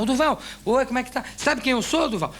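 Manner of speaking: imitating a friendly hail; calling out. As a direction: call up to someone behind a door. Calling to man locked in bathroom.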